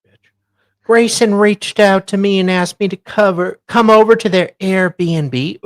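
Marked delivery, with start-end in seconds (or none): 0.1-0.3 much softer, slow, low grumble; very soft, lower petty mutter; muttered mock grudge. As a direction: mutter it like a sore loser. Mock grudge over the stolen seat.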